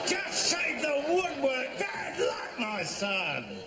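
high consoling shout at the screen; shout at the telly. Real, not acted. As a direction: call out to the player, sympathetic. Shouting at TV player.

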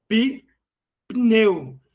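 "pneu" broken as pi... neu; wrong syllable split. Shown as a demonstration. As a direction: say "Pi-", pause, then "pneu" as a second syllable. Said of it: "Não é pneu".

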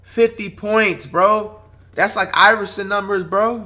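amazed. Real, not acted. Marvels at fifty points.

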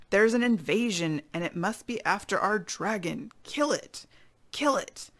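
storybook yell rising high on the cries; contained angry-mob cries. Acted. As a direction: rouse the crowd, punchy and urgent. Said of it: "all yelling".

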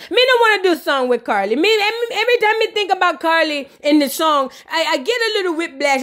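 imitated Jamaican patois accent; mock Jamaican patois refusal; a singer. A singer refuses a song with Carly, imitated Jamaican patois. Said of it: "And look at her".

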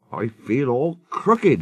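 slow, sorry grumble; mildly plaintive old engine; complaining. Acted. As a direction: moan it in a drawn-out way. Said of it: "he complained".

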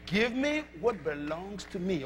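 softly, a calm low warning; quiet warning. Shown as a demonstration. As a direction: warn them quietly, no fight. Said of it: "Just quietly warn them".

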